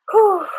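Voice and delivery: a loud, high exhale of real exhaustion after the set; tired whew. Real, not acted. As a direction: blow out a winded whew, worn out. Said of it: "As you can see, I'm tired".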